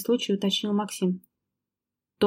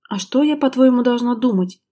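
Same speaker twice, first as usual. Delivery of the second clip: higher and louder outraged cry; angry outburst; 4 semitones higher, 6 dB louder than usual. Acted. Wife shouting at husband in a quarrel, outraged. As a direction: hurl the question at him. Lera slams table, shouts.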